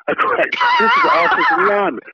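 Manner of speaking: can't hold back the laugh while telling it. Real, not acted. Laughing at his own story.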